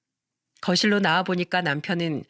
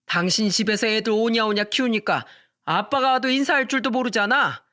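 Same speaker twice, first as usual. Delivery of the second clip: put-on drunk husband; 2 semitones higher than usual. Drunk husband blaming wife.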